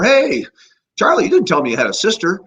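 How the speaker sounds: very high, loud jovial hail; cheery greeting. Retold or imitated. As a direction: throw the door open and greet him cheerfully. Greeting a friend at the door.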